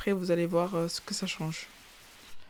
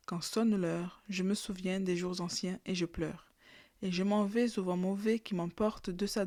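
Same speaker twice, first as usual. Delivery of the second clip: poem recitation. Shown as a demonstration. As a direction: read the verses like a recital. Recites the poem a third time.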